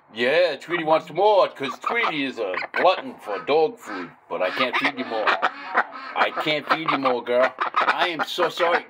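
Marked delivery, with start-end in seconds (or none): 5.3-8.9 slow it right down and tell her kindly; slow, gentle refusal. Real, not acted. Owner gently telling his duck no more food, slowly.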